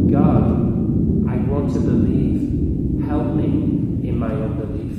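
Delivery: loud, pleading prayer of a saint; impassioned prayer. Retold or imitated. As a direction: cry out to God, starting very loud and easing at the end. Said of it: "His prayer was".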